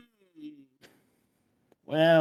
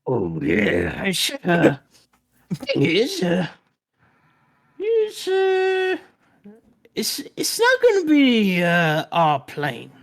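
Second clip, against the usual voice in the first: put-on old man voice. GM plays old man NPC.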